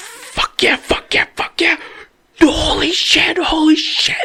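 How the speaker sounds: mock, very high, excited whisper-scream. Retelling a tense moment in a story, reenacting an excited whisper-scream. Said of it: "this is how loud I'm literally being".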